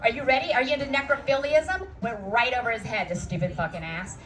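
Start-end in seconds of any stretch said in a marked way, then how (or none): 0.0-1.9 mock seductive. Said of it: "I was like".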